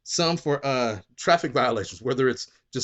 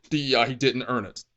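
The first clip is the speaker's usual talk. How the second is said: smug boast. Retold or imitated. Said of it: "with your chest out and was smiling".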